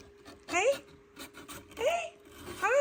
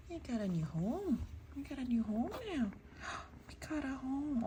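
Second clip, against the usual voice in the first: high sing-song coo; 8 semitones higher than usual. Real, not acted. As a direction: coo it to a pet. Cooing to kitten.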